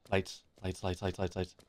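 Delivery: soft rapid repeating under breath; pleading quietly for the lights; anxious whispered chant; urgent mutter. Real, not acted.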